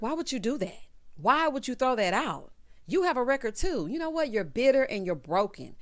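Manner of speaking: acted confrontation. Lauren confronted outside over the record, mock indignation. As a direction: act out telling someone off.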